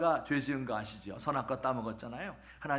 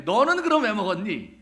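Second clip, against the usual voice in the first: higher, louder accusing question; God confronting the man, raised and stern; God demanding; 7 semitones higher, 9 dB louder than usual. Acted. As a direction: call him out sharply. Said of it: "물었어요".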